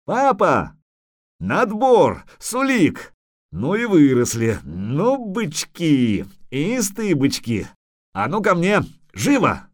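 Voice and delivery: high, delighted calling out; joyful greeting. A narrator's reading. Father greets his sons in the yard, delighted. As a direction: call the boys in with delight.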